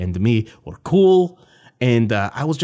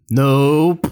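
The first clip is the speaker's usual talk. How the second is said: creepy nope; 5 dB louder than usual. Acted. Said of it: "I don't like how you said nope like that".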